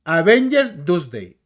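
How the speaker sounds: AVENGERS DOOMSDAY said slowly and loud; imitated mispronunciation. Quoting a critic's version of "Avengers Doomsday", slow and mocking. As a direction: draw out "Avengers Doomsday" in mockery. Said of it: "Y dice".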